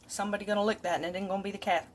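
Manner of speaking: ordinary talk, nothing marked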